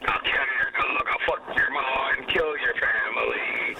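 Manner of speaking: lightly voiced pirate, partly rasped; pirate impression. Shown as a demonstration. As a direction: put on a bit of a pirate act. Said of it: "give us your best pirate impression".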